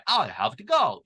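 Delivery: British accent, words kept distinct. Shown as a demonstration. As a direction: demonstrate British "have to", clearly separated. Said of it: "이런 식으로 영국에서는 발음하기".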